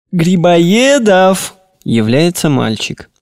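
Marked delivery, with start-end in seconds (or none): 0.1-1.6 calling out. Acted. Master calling servant again.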